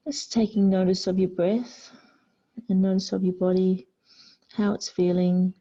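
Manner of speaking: calm yoga instruction with long pauses; guided meditation. Real, not acted. Yoga teacher guiding the class into child's pose, guided meditation. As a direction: guide them to surrender, phrase by unhurried phrase.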